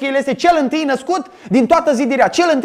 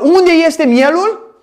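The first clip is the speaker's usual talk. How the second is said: Isaac asking; 4 semitones higher, 3 dB louder, much slower than usual. Acted. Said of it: "Isaac întreabă".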